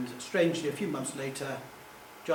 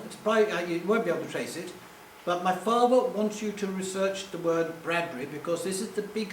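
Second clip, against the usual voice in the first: lightly imitated posh English caller; a touch of upper-crust English; 2 semitones higher than usual. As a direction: deliver instructions as a mildly posh caller. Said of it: "this very posh voice said".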